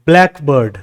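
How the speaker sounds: "ब्लैकबर्ड" as BLACK-bird, pitch falling; first-word stress. Shown as a demonstration. Teacher demonstrates a compound, "ब्लैकबर्ड" stressed on its first part. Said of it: "पहले जो".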